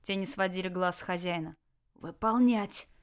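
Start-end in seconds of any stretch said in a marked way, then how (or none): 1.9-2.9 strained, croaked command; hoarse order. Acted. Captured dictator ordering his guards, hoarsely. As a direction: croak it out like a throttled boss. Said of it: "прохрипел Толян".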